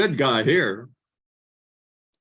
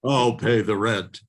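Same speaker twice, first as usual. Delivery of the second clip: melodrama hero; 4 semitones lower than usual. Acted. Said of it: "When I played Black Bart".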